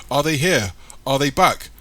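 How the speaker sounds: loud, high urgent shout; shouting while running. A narrator's reading. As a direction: shout out as he runs. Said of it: "Michael shouts".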